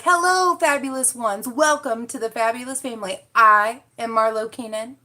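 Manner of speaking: high, bright host greeting; lightly voiced impression of Marlo; imitating Marlo. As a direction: open like the host of the channel. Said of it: "I was imitating you earlier".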